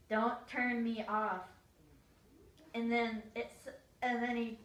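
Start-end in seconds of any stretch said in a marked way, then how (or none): 0.1-1.4 put-on slow, pleading little kid; slow pleading, not yet loud. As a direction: drag it out like a begging child. Little brother begs, first take.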